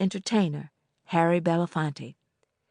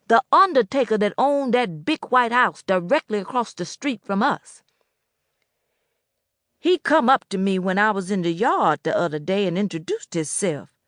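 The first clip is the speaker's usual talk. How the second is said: put-on old Boatwright voice; 2 semitones higher, 3 dB louder than usual.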